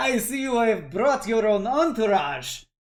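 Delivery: delivered fully in a slimeball character voice. Voicing Laszlo greeting a player character: voicing Laszlo. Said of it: "as he, uh, kinda waves at your companions".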